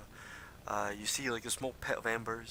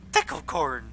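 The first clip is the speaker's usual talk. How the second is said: loud kobold call, raised pitch; 4 semitones higher, 11 dB louder than usual. Acted. Kobold guide calling to the other kobolds, loud call. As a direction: call it out louder and higher. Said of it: "he calls out".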